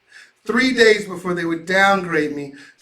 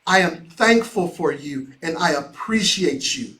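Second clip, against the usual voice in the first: sincere thanks; 4 semitones lower, 4 dB quieter than usual. Retold or imitated. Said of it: "I looked at them and said".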